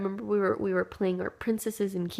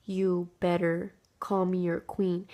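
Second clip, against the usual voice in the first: bossy demand; slower than usual. Retold or imitated. Repeated bossy demand, slower.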